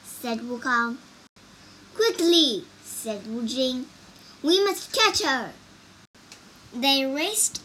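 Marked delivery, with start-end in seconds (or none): 1.9-2.7 urgent call. A narrator's reading. Hero urging companions to give chase. 4.4-5.5 high, loud urgent call; urgent urging. A narrator's reading. Hero urging companions to give chase.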